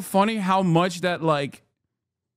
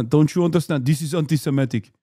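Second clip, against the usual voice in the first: mock Israeli accent; 2 semitones lower, faster than usual. Israel defender lecturing on a demand for proof, in a mock Israeli accent. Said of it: "please stop with this accent".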